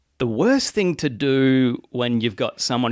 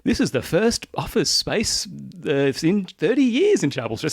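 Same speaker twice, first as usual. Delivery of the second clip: ad line delivery; 5 semitones higher than usual. Retold or imitated. Actor quoting a wanky ad line to co-host, lightly put-on ad read. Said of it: "I was delivering a line like".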